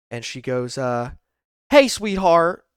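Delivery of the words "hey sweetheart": bad Southern-style accent, higher and louder; Clarice Starling. Older lady cop greeting a driver, bad Southern accent. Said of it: "a bad Clarice Starling accent".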